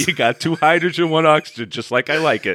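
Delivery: lightly acted connoisseur, starting high and easing down; hint of a drug buyer savoring the sample; mock drug-deal tester. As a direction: join in the bit as a satisfied dealer. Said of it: "tastes it like a drug deal".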